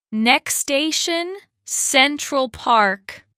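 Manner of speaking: measured platform announcer voice; train announcer. Acted. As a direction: read it out like a train tannoy, slowly.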